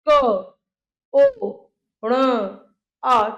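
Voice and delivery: long pauses between single sounds; slow phonetic demonstration; sounding out slowly. Shown as a demonstration. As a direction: hold each sound on its own. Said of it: "ऐसे ही आप इसको बहुत ध्यान से देखिए".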